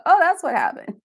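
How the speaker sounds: high, light "oh, that's what happened" aha voice; imitating her future self catching on; mock realization. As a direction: play the sudden penny-drop moment. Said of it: "I probably could watch it again and go".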